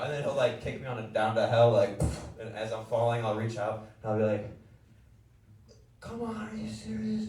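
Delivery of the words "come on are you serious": high-pitched plea. Acted. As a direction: plead in a high, faraway squeal. Pleading while falling to hell.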